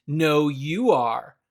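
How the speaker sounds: slow, mild playground retort; a light teasing no, you are; childish comeback. Retold or imitated. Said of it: "with the same tone as".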